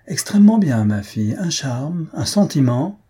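high, loud opening burst of showy compliments; very loud praise. A narrator's reading. Father praising his daughter before guests, very loud. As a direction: proclaim it high for the room to hear. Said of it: "Puis, très haut".

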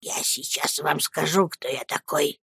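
very soft, low voice; menacing whisper. A narrator's reading. Headmaster about to declare himself, whispering. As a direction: confide it low, as a threat. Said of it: "прошептал мистер Крикель".

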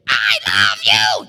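mock mother's scream, slow and loud; loud, drawn-out mock yell; mom screaming. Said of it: "even when your mom screams at you".

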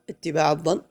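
"اتباع" with its final ع voweled into "الظن"; voweled ending. Shown as a demonstration. Teacher correcting a student's reading, final ع of "اتباع" voweled. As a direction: link "اتباع الظن" by sounding the vowel after ع. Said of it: "حرك اتباع".

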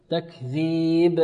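very slow تكذيب, clearly bounced final b; clear qalqala. Shown as a demonstration. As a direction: make the b of تكذيب echo. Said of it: "قلقلة أبين". (قلقلة بينة للباء في تكذيب)

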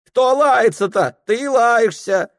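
very high, loud retort; woman yelling back. Acted. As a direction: throw it right back at him.

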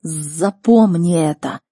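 very slow, drawn-out talking beast; weighty, stretched creature voice; snow leopard. Acted. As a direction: warn like a great predator, word by word. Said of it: "произнёс Барс".

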